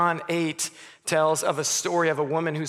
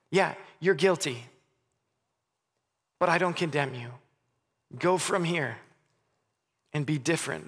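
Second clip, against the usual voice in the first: a touch of tenderness, letting the guilty woman off; gentle. Retold or imitated. Jesus speaking gently to the guilty woman, understated tenderness. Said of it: "very gently and says".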